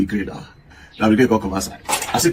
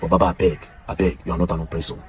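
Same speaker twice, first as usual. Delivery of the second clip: earnest pleading; 5 semitones lower, 5 dB quieter than usual. Real, not acted. Pleading with a singer, soft and low.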